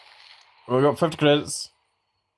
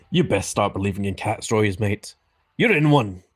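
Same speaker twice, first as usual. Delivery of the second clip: Barbossa voice; 3 semitones lower than usual. Acted. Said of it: "Captain Barbossa".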